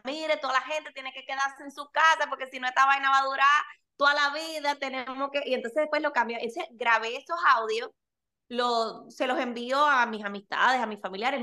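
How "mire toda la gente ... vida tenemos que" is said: light Dominican Spanish accent, lightly put on; playful Dominican auntie telling people to stay home. Mother recording stay-home audios for friends, light Dominican accent. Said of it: "hablaba como la dominicana".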